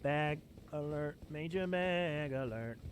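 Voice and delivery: soft, slow low aside; slow hushed alert; muttered alert. Real, not acted. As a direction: murmur the warning. Quiet announcement.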